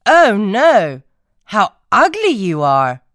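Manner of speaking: 1 mocking duck voice. Ducks mock the duckling.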